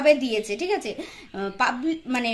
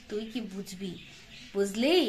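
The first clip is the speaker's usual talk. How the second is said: tuই কি বুঝবি muttered softly and lower; muttered aside; 6 semitones lower, 8 dB quieter than usual. Shown as a demonstration. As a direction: drop it to a much softer mutter under the breath.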